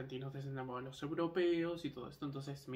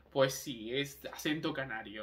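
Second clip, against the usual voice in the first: Canarian pride; 4 dB louder than usual. Retold or imitated. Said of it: "cuando me sale el orgullo de Canarias, como diciendo".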